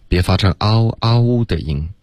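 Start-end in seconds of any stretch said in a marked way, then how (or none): 0.6-1.4 嗷嗷 with the lips pushed out; pouted lips. Retold or imitated. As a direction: imitate the mistake, a pouty 嗷嗷. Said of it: "还是听到你嘴唇撅了一点儿". (撅嘴读“嗷嗷”)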